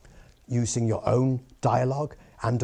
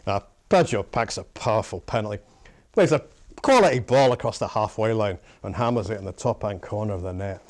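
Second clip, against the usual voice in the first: Scottish football commentator voice; Scottish pundit impression; 2 semitones lower than usual. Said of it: "the real test of a Scottish impressionism".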